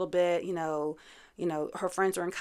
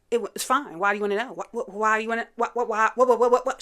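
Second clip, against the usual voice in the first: short-circuiting; 3 semitones higher, 5 dB louder, faster than usual. Retold or imitated. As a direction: stammer as if her brain is glitching. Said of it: "it's like she's short-circuiting".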